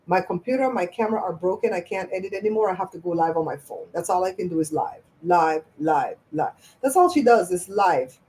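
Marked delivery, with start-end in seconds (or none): 0.1-6.5 quiet, whiny mock of her lies; mocking her excuses. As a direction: lightly imitate her lame excuses. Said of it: "I'm gonna start telling those same lies".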